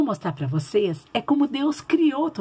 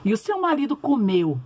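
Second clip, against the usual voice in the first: put-on gentle storytelling for kids; reading to children. (contação de história bíblica para crianças)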